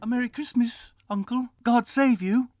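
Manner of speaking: high, loud cheerful nephew voice; the young nephew calling out gladly. Acted. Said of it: "cried a cheerful voice".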